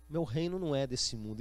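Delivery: low, measured, unruffled answer; calm reply. Acted. Jesus answering Pilate's questioning, calm and low.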